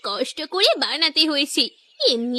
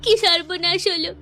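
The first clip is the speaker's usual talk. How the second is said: fake wailing; 3 semitones higher than usual. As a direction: wail for show so no one suspects. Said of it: "একটু কান্নাকাটি শুরু করব".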